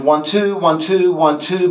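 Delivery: counted one-two with rising ends; counting out a weak line ending; weak ending beat. Shown as a demonstration. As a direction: chant the beats, light at the end. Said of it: "a weak ending to the line".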